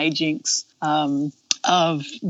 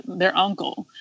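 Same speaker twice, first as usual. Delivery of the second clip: usual speaking voice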